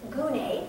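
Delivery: gune, said as goo-nay, slow and clear; Greek word. Shown as a demonstration. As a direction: pronounce gune like a Greek teacher. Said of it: "that's how it's pronounced".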